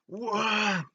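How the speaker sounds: high startled exclamation; surprised whoa; sudden whoa. Retold or imitated. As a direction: react to her rage. Woman gets enraged.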